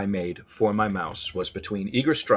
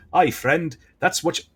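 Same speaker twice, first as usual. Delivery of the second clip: hint of a botched Irish or Scottish brogue; higher, badly attempted Celtic accent; worse Irish-Scottish accent; 4 semitones higher than usual. Old hare hails a friend in a failed Irish-Scottish accent. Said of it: "that's even worse".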